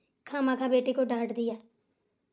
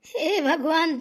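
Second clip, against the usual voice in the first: louder cry to God in pain; pained exclamation; 5 dB louder, much slower than usual. Acted. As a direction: call on God as the foot hurts. Mother hurt, exclaiming. (दर्द भरी पुकार)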